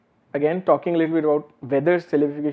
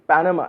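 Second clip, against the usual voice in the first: Panama with PAN stressed; stress on first syllable; faster than usual. Shown as a demonstration. Lecturer shows students where the accent falls, Panama stressed on PAN. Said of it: "has accent on the first syllable".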